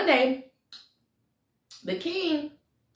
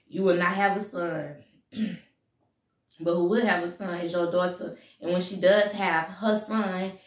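lightly voiced solemn soothsayer, low and measured; witch doctor's prophecy; 4 semitones lower than usual. Witch doctor foretells the king's downfall, solemn prophecy. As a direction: pronounce a fate in a low, deliberate voice.

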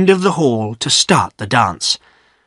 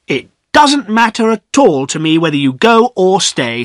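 impatient; 7 semitones higher, 4 dB louder than usual. Acted. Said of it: "said Priscilla impatiently".

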